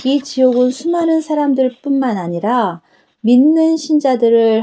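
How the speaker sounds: a hint of a tender Jesus explaining to his daughter; Jesus speaking. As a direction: answer her kindly as the Lord. Jesus showing the next hell.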